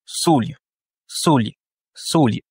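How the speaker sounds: solio said the Russian way: SO-lyo; Russian pronunciation. Shown as a demonstration. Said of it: "l'accentuation est sur le O".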